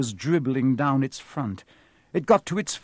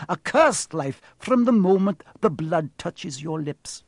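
higher, grave creature voice; solemn centaur; 4 semitones higher, 4 dB louder than usual. Acted. Centaur explains to the boy why unicorn blood is cursed, grave and higher. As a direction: warn of a terrible price.

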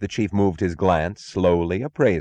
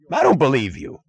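high, shrill protest; shrill cry; 7 semitones higher, 3 dB louder than usual. Acted. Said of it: "His cry was too shrill".

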